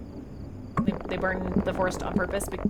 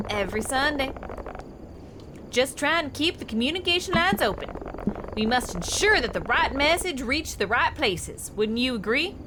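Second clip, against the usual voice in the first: lightly voiced game stranger with an accent; friendly-sounding worker, lilting a little higher; Silas; 4 semitones higher than usual. Worker greets the new guy, lightly put-on accent.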